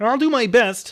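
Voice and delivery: high, loud, belted frog puppet voice. Reading a story aloud, giving the inspector's line in a Kermit voice. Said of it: "Inspector Parnacki is going to be Kermit".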